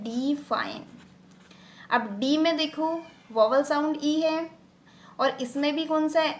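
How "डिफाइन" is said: "डिफाइन" divided as डि and फाइन; "डिफाइन" with a drawn-out डि before फाइन; split into syllables. Shown as a demonstration. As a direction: say "डिफाइन" as two distinct parts, डि, फाइन. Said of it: "अब इस word को अगर मैं अलग-अलग करती हूँ".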